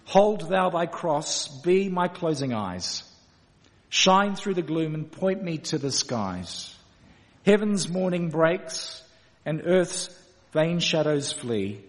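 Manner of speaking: slow, measured verse reading with pauses; hymn recitation. Acted. Preacher closing with the last hymn verse, reciting slowly.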